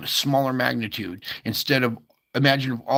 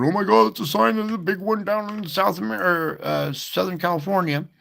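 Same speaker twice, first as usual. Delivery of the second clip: mock panic; 7 semitones higher, faster than usual. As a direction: ham up the alarmed public's "big one" fear. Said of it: "I know everybody's freaking out, going".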